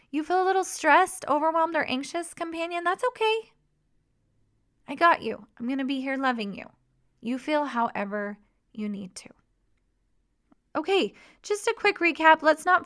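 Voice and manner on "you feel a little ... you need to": calm reassurance. Shown as a demonstration. Leader comforting an anxious companion, gently reassuring. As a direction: lightly comfort someone who is overwhelmed. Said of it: "Or it sounds like this".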